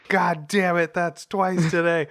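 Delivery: mild mock fury at the coffee guy; mock annoyed curse. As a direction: grumble at the clumsy clerk. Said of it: "walks into the coffee guy".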